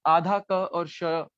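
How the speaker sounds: आधा क और श drawn out slowly; slow sound demo. Shown as a demonstration. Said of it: "आप बोल के देखेंगे तो आपको पता चल जाएगा". (धीरे-धीरे ध्वनि बताना)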